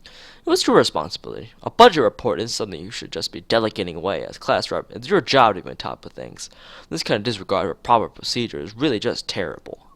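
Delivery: stern class president scolding a class rep. Acted. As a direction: scold her for slacking off. Shizune scolding Lily in character.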